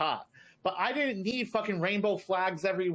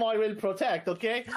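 mock Arab accent, raised pitch; 4 semitones higher than usual. Shown as a demonstration. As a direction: protective uncle in an Arab accent. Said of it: "say it in an Arab accent".

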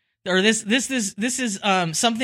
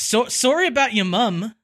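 put-on Australian accent; 3 semitones higher than usual. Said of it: "speak with an Australian accent".

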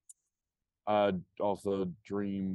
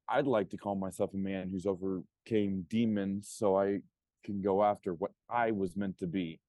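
earnest, driven promo speech; wrestling promo. Pretend. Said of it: "I let you cut a promo".

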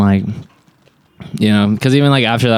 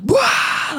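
high-pitched imitation of a room erupting; imitated laughter burst. Imitating the roommates on speakerphone, mock eruption of laughter. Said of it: "Like, erupt into laughter".

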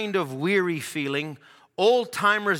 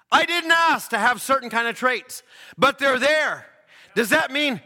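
higher, insistent preacher delivery; raised-voice preaching; 7 semitones higher, 4 dB louder than usual. Acted. Preacher listing unasked-for traits to congregation, insistent preaching. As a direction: press it home to the congregation.

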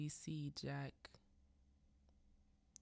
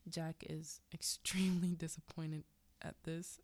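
laughing whisper. Real, not acted. Narrator laughs through retelling.

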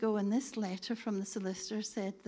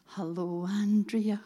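imitating a little Glasgow greeting, name called louder; 6 dB louder, slower than usual. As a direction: lightly mimic a wee Glasgow voice. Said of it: "this little Glasgow voice said".

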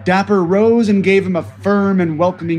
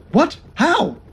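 astonished; 12 semitones higher than usual. Acted. Greenlee astonished.

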